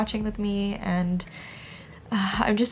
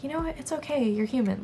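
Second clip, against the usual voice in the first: gentle self-compassion; 5 semitones higher than usual. Retold or imitated. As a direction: comfort yourself like a friend. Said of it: "I practice a lot of self-compassion".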